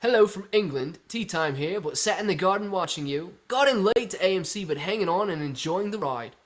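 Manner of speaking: amateur mock-Cockney accent, slightly lifted; hammed-up attempt at an English viewer's accent; imagined English accent. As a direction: read it in a badly faked English accent. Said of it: "this is how I picture Andy wrote that message".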